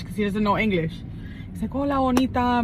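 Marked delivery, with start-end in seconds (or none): 1.7-2.6 higher-pitched mock catcall in Spanish; flirty Spanish greeting. Driver greets a passing woman in Spanish, mock flirty. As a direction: lightly imitate a man hailing a woman in Spanish. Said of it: "But in Spanish".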